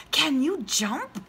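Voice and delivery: very high, tiny tadpole voice. Acted. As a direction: squeak it like a baby tadpole. Tadpole asks.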